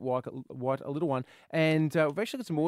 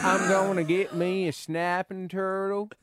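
put-on mild southern accent. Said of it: "how's your southern accent there".

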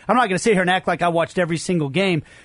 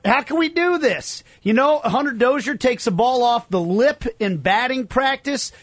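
mock outrage, pitched up high; sarcastic; 4 semitones higher than usual. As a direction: play fake indignation, tongue in cheek. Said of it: "I was being very tongue-in-cheek there".

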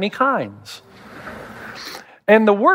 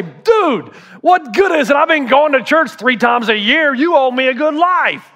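higher, indignant entitled gripe; entitled complaint; 5 semitones higher than usual. Retold or imitated. Churchgoer complaining to God, higher and entitled. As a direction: demand it like you're owed. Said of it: "are you gonna say".

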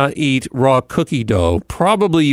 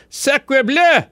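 high, hammy French chef exclaiming; 12 semitones higher than usual. Pretend. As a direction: cry it out like an outraged French chef. French exclamation about hidden pools.

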